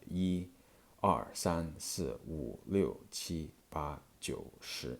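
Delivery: yi, er, san, si, wu, liu, qi, ba, jiu, shi counted out as Mandarin syllables; Mandarin pronunciation. Shown as a demonstration. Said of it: "starting with, uh, Mandarin".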